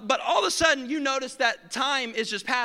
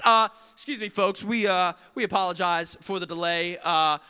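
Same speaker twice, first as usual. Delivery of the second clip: lower, calm apologetic pilot; smooth over the delay; lightly voiced airline pilot; pilot announcement; 4 semitones lower than usual. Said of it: "he says something like this".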